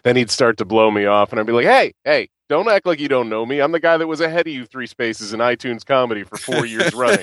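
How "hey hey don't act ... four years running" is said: higher-pitched mock indignation; indignant protest. Snubbed podcaster confronting a more famous one, mock indignant. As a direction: demand to be recognized, hammed up.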